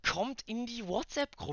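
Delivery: high, loud bragging scam hype; shrieking jackpot winner. Acted. Parody rich scam influencer.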